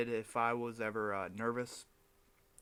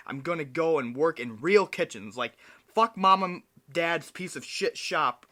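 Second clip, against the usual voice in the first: mock defiance; 2 semitones higher, 5 dB louder than usual. Acting out his defiant plan.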